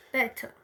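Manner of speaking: better com T nítido e final A; British better again. Shown as a demonstration. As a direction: repita better à britânica. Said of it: "tem um som de A". (better britânico, final em A)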